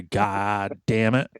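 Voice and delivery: slow exasperated. Pretend. Venting about a know-it-all.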